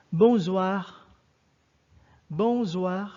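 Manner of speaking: teacher models the evening greeting for the class; French bonsoir. Shown as a demonstration. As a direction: say "bonsoir" the French way, three times. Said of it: "Repeat after me".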